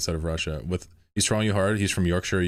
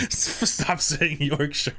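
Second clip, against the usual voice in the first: very slow, higher "Stop saying Yorkshire", stretched out in mock despair; drawn-out plea; 7 semitones higher, much slower than usual. Real, not acted. Streamer mock-begging chat to stop saying Yorkshire. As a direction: drag each word out like a begging whine.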